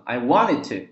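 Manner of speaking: "wanted" said as "wan-ned"; no T after the N in "wanted"; dropped T. Shown as a demonstration. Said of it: "这样读". (“wanted”省去中间的T音)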